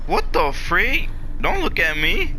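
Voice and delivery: loud, shocked outburst; startled shout. Real, not acted. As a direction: jump scare yell, loud. Startled by something in the game.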